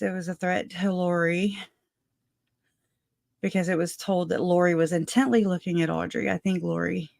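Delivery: winded after running; out of breath. Real, not acted. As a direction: talk while catching your breath. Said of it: "I'm out of breath".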